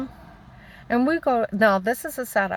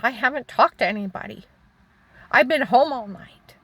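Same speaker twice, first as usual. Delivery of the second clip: higher, emphatic denial; retold protest; 5 semitones higher, 4 dB louder than usual. Wife denying husband's accusation, retold as insistent protest. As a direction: insist on innocence, voice lifting and louder at the end.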